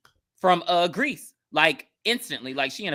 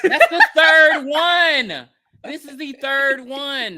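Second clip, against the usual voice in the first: high, slow laughing through the words; laughing disbelief; 9 semitones higher, 7 dB louder, much slower than usual. Real, not acted. Laughing with a friend about garbage trucks. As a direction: crack up at the coincidence. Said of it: "laughing about garbage truck movies".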